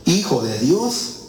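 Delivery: high, pleading demon cry. Acted. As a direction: cry out like spirits afraid of torment. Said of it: "clamaron diciendo".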